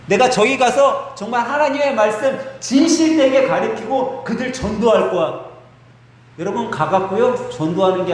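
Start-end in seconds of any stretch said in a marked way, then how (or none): 0.0-5.5 lightly acted boast, climbing higher as it builds; overconfident believer. Devout believer vows to go evangelize the sinners, confidently. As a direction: declare it with building self-assurance. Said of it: "신앙심 좋은 사람들이 약하게 꼭 하는 얘기".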